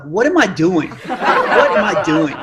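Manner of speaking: slowing, laughing self-rebuke; laughing at himself. Retold or imitated. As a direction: catch yourself mid-race.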